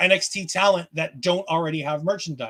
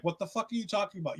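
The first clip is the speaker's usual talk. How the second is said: muttered disbelief; 11 dB quieter, faster than usual. Retold or imitated. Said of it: "Dion's just looking at her like".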